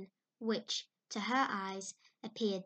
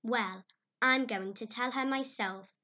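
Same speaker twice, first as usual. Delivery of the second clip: resolute; 5 dB louder than usual. Acted. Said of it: "said Anne resolutely".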